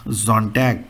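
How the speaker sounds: "Sonntag" starting with a z sound; German pronunciation. Shown as a demonstration. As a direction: say "Sonntag" as ZON-tag. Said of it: "Sunday is called".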